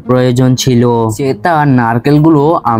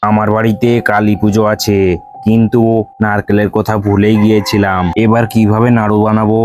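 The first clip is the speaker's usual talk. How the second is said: lower, heavier voice of the village landlord; 4 semitones lower, 4 dB quieter than usual. Acted. Landlord calling for Haran at his door, lower voice. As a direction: speak as the landlord, pitched lower.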